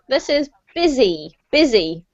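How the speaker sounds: "busy" clearly as BIZ-ee; model pronunciation. Shown as a demonstration. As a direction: say "busy" like "bizzy". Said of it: "that's better".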